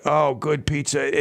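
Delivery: slow, dreamy relish on good pizza; savoring. Real, not acted. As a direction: linger over good pizza like a taste memory. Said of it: "It makes me talk about it".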